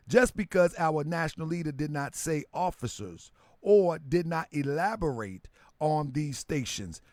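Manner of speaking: reading a viewer's comment back slowly and deliberately. Shown as a demonstration. Streamer rereads a chat comment to his family, slowly. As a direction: stretch it out so every word lands. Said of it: "Let me read this one slow one more time".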